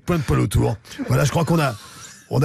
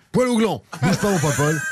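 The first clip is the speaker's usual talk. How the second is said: lance la rime en riant, très aigu; éclat de rire potache; rigolard; 5 semitones higher than usual. Real, not acted. Blague, rire. (blague potache lancée en riant)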